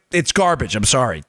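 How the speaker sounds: ordinary talk, nothing marked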